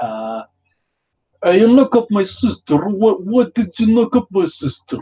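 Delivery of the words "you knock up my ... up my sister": put-on Romanian accent, very high pitched. Riffing on a story, playing a man whose sister was knocked up, in an attempted romanian accent. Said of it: "I'm gonna try a Romanian accent".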